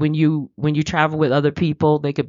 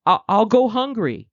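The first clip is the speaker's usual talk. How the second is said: higher, fretful worry; panicked thinking; 6 semitones higher than usual. Retold or imitated. Worrier imagining going hungry, mock panicky. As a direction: keep spiraling in mock dread. Crisis mode exercise, worried voice.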